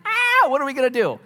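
high, panicky surfer dude. Retold or imitated. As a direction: whine it like a scared surfer kid. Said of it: "talk like a surfer".

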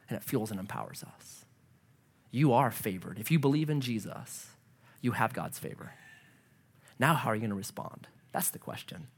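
very soft, low, solemn; hushed assurance. Real, not acted. Preacher asks how they will respond, hushed. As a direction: drop to a low, intimate hush.

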